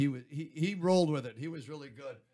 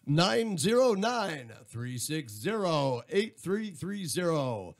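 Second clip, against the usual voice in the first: slow, drawn-out station announcer delivery; radio voice. Shown as a demonstration. Radio host inviting listeners to call the station, announcer voice. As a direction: give it your radio voice, stretching the phone number. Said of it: "do your radio voice".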